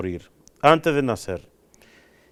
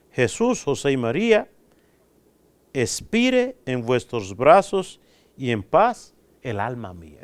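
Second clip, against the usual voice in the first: prayer recitation; 3 semitones lower than usual. Shown as a demonstration. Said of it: "Acostúmbrate a repetir cada día".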